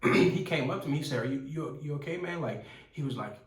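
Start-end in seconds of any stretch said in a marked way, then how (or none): 1.2-2.4 imitating a panicked stranger, higher; mock-panicked question; retold panic. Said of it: "I seen him in panic".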